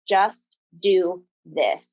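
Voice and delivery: very slow, calm and gentle command; calm voice of the Lord. Retold or imitated. The Lord gently urging the scared girl, very slowly and calmly. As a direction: let each word land slowly, like a gentle command. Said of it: "he just so clearly said".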